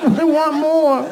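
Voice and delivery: mock manic hunger, drawn out at the end; crazed craving. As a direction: demand it like a ravenous little monster. Crazed baby-eater craves another bite.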